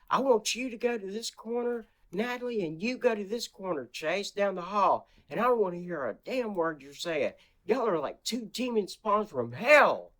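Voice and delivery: high mock stepmother voice; imitating Heather. Stepmother ordering the kids to opposite corners, mocking high voice. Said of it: "Except she was way louder".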